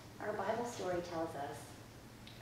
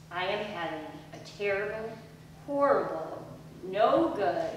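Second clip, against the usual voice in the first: mild complaining wail; 5 dB louder, slower than usual. Acted. Child's complaint in story.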